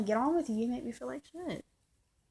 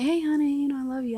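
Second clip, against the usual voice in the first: affectionate greeting; 6 semitones higher, 6 dB louder than usual. Retold or imitated. Acts out sweet phone greeting.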